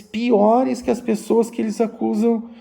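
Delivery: normal talking voice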